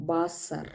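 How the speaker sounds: വാസർ with v and a stressed final er; German pronunciation. Shown as a demonstration. Teacher demonstrating the final r for students. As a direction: lean on the er of വാസർ. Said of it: "stress ചെയ്ത് തന്നെ പറയണം എർ".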